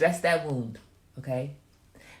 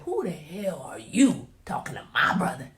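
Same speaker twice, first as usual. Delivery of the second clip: whispered threat; 5 dB louder than usual. Retold or imitated. Toddler cousin confronts girl.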